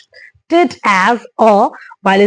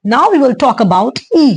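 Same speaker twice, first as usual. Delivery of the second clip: slow English line; much slower than usual. Shown as a demonstration. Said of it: "English phrase in lesson".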